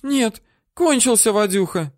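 woman moaning the bad news. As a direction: moan it out high and pitiful.

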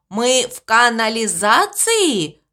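carefully spelling out канализации slowly. Acted. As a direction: sound out the hard word slowly. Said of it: "произнёс сложное слово очень медленно". (очень медленно, по слогам)

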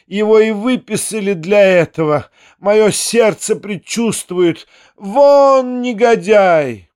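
put-on high, slow furious shrieking of an old mother; hammed-up outrage, driving the guest out; furious old lady. A narrator's reading. Генеральша гонит гостя в ярости. (гневный крик старой генеральши)

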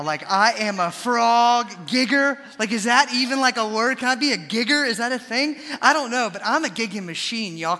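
loud, high-pitched excited brag; excited bragging. Real, not acted. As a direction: hype yourself up about your new hobby. Bragging about frog gigging, worked up.

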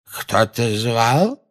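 slow, drowsy feigned question; feigned waking. A narrator's reading. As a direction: pretend you were just asleep. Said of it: "нарочито вздрогнул". (нарочито сонный голос)

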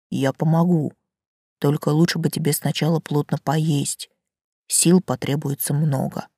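low velvety tree voice; a hint of a deep old tree; talking tree. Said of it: "низкий и бархатистый".

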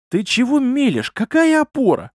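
very high-pitched outraged questions; incredulous, climbing outrage; indignant. A narrator's reading. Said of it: "возмутился архимаг".

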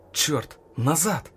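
loud, very slow alarmed cry; shouted warning. A narrator's reading. Officer spotting the grenade, shouted warning. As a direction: yell to get everyone back. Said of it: "прокричал Вадим".

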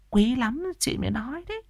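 high, hushed, sly confiding; confiding gossip. Acted. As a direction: pretend you're doing her a favour. Gossip feigning a favour.

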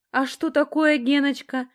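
high, loud, ringing interjection. A narrator's reading. Наташа butting in on Геныч, ringing. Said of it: "вмешался звонкий Наташкин голос".

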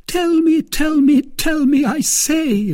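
high, loud insisting; Milady pressing her lover, insistent and loud; urgent demand. A narrator's reading. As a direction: press him hard for the answer. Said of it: "repeated Milady".

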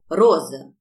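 a loud call across the yard; husband summoning his wife with a loud call. Acted. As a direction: shout her name to summon her.

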